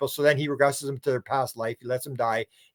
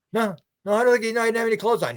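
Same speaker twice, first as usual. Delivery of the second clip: naive witness voice; 8 semitones higher, faster than usual. Retold or imitated. Retold abductee answering, high voice.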